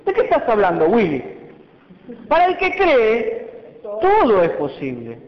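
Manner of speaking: mock-exasperated, stretched-out retort; a hint of scolding disbelief; exasperated Jesus. Jesus chiding the doubting father, mildly exasperated. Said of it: "le dice Jesús".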